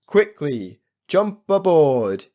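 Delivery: loud, slow urging; urgent captain call. Acted. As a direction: call them aboard in a hurry. Captain urges children aboard.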